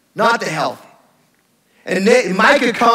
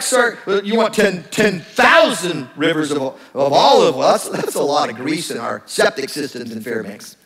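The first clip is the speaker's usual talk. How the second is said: put-on sarcastic teenager. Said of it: "like a sarcastic teenager".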